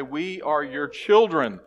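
slow, loud fervent plea to God; crying out in prayer. Pretend. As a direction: cry it out to the Lord. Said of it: "we could simply cry out and say".

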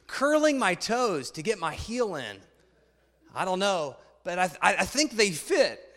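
put-on reading a children's book aloud to the congregation; story reading. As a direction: tell it like a picture book to a room.

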